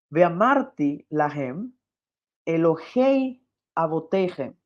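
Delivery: slow, careful Hebrew recitation; Hebrew reading. Shown as a demonstration. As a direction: read each Hebrew word slowly. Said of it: "cuando dice".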